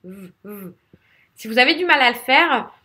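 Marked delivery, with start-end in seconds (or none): 0.0-0.7 softer short motor-like revs; isolated English R. Shown as a demonstration. Teacher isolating the English R, softer revving sound. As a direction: rev a rounded R sound briefly. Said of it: "c'est une moto qui démarre".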